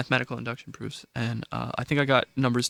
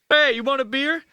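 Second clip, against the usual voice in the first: put-on high, eager awkward teen; awkward teenager; 11 semitones higher, 4 dB louder than usual. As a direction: blurt it out like a nervous teen. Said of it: "that's how every awkward seventeen-year-old talks".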